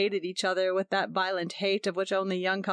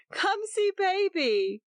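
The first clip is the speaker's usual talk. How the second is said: laughing; 12 semitones higher, slower than usual. A narrator's reading. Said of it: "Her voice was full of laughter".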